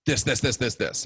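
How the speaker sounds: mildly forceful rapid repetition; forceful insistence. Retold or imitated. Imitating a teacher pushing doctrine, mildly forceful. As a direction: press each repeated word, as if imitating pushy teaching. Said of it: "but he wasn't forceful".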